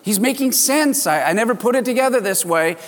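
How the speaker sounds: a lightly acted rush of new hope; thrilled hope. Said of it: "gone from depression to being thrilled and excited".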